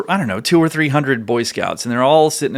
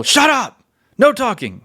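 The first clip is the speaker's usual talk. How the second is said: barked order; 11 semitones higher than usual. Retold or imitated. Ceremony leader yelling at whispering scouts to shut up. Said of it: "boys are tough enough to be able to handle".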